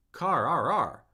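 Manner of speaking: "car" drawn out in up-and-down waves; wavering tone. Shown as a demonstration. Teacher shows tone won't change an English word, wavering tone. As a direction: swoop "car" up and down repeatedly. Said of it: "by changing the tone".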